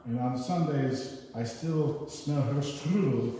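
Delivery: put-on a light German accent, slow on the first line. A reader doing a poem in a mock German accent. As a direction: read it like a German grandson remembering Ma. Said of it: "supposed to be a German accent".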